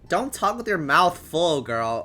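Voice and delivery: firm scolding mother voice; stern mom. Acted. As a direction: scold the daughter sharply.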